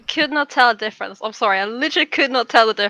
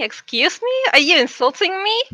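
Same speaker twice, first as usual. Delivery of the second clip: mock offended; 6 semitones higher than usual. Pretends offence about bunnies.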